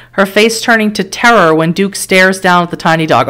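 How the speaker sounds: measured dramatic game narration; story narration. A narrator's reading. Narrator setting a car crash scene for the player, story narration. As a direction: read it like a grim storyteller.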